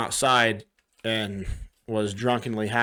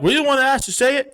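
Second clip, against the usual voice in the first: squeaky fast imitation of a shy bar guy; higher, quicker, like a timid stranger; mock high-pitched guy; 12 semitones higher, 3 dB louder, faster than usual. Retelling a bar guy's question, squeaky and fast.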